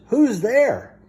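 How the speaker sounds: a high little mouse call; lightly voiced mouse crying out; mouse cries out. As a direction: squeak it out like a startled mouse. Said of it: "Mouse cries".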